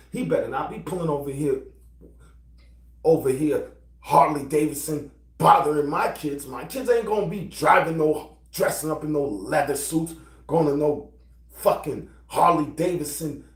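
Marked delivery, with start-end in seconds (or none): 0.1-8.9 louder heated warning; angry rant. Real, not acted. Father warning about the biker near his kids, heated. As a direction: build the threat word by word.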